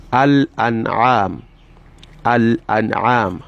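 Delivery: Al-An'am with the lam said clearly and slowly. Shown as a demonstration. Teacher modelling a clear lam for students. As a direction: sound the l in Al-An'am fully, no assimilation. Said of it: "you pronounce it manifestly".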